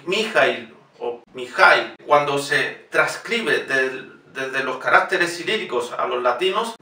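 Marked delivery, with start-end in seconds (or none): 0.0-1.9 Mijail o Mijail, slow, stressed on -ail; slow stressed demo. Shown as a demonstration. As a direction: spell out Mijail slowly. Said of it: "Es importante decir Mijail".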